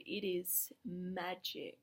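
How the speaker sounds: slow, soft awed whisper; hushed awe. Real, not acted. Inviting viewers to abundance, in a slow, soft whisper. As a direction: let it fade into a whisper of wonder.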